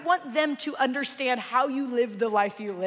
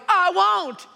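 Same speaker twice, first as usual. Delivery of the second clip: high, loud defiant yell; screaming match; 7 semitones higher, 7 dB louder than usual. Acted. Stranger refusing Norm's dare, screaming. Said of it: "they begin a screaming match".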